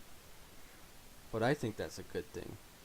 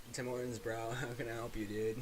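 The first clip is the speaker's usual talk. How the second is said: stoner voice; 3 dB quieter than usual. Retold or imitated. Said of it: "sound like the biggest stoner".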